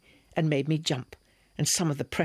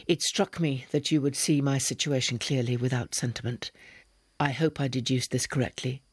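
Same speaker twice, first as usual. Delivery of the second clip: ponderous monotone. Acted. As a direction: drone it out ponderously. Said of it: "spoke in a ponderous monotone".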